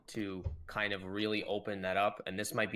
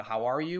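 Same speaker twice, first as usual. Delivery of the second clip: "How" raised and stressed, rising at the end; 3 semitones higher, 5 dB louder than usual. Shown as a demonstration. Teaching listeners the caring check-in question, stress on HOW. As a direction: lean on "How" to open the question up. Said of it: "with the emphasis on "how".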